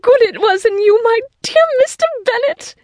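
very high, quick gush of delight; rapturous joy. A narrator's reading. Wife thanks her husband for visiting, in high rapture. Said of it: "first tumult of joy".

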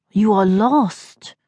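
slow, gentle, a touch of concern; a stranger gently realising she is lost, mild concern; mildly concerned. Acted. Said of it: "He sounded concerned".

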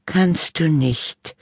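put-on high, slow boy voice; bickering brother. A narrator's reading. Little brother teasing sister, high and slow. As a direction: drag it out to annoy her.

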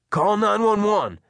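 loud, high emergency shout; Pelham shouting. A narrator's reading. Man ordering boy to get help, shouting. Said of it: "Pelham shouted".

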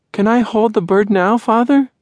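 put-on high eager little girl. Dot begging her father to hold the bird, high childlike.

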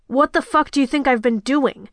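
edgy, irritated retort; tense, exasperated challenge; on edge. Acted. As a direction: snap back, on edge. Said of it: "He sounded on edge".

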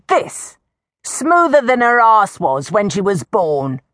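put-on high, indignant old villager; outraged old woman. Old woman shakes her granddaughter before the crowd, high indignant rant.

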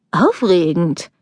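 a silly, slow Yorkshire echo of "Aufregend?"; mocking her Yorkshire accent. A narrator's reading. Young man mocking his girlfriend's Yorkshire accent, silly imitation. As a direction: drawl "Aufregend?" in a daft mock Yorkshire accent. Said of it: "Er ahmte ihren leichten Yorkshire-Akzent nach, so dass es bescheuert klang".

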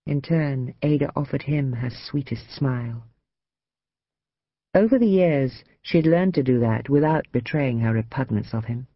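ordinary delivery, nothing marked

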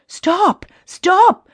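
high, urgent command to halt. A narrator's reading. Davy halts the climbing group, high command. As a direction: call a halt sharply. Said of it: "commanded Davy".

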